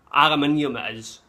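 aluminium stressed and firm, five syllables; British aluminium. Shown as a demonstration. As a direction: settle it with aluminium. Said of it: "not aluminum".

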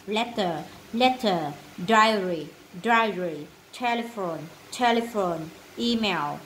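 each word said twice, clearly, in a steady rhythm for the class to echo; repeat-after-me drill. Shown as a demonstration. Teacher leads the class through the vocabulary list again, in a steady repeat-after-me drill. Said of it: "Ok, read again".

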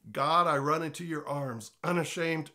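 lyric read. Shown as a demonstration. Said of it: "Let's go to a song".

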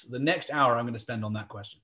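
interviewer calmly confirming, falling tone; matter-of-fact confirmation. Retold or imitated. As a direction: settle it evenly, no question in it. Interviewer's calm confirmation acted out.

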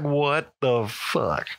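slow, stretched-out mock bewilderment; retold disbelief. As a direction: draw each word out as if dumbfounded. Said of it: "I'm like".

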